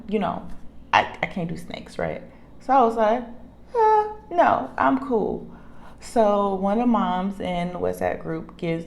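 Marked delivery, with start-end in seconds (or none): 3.8-5.5 retold refusal.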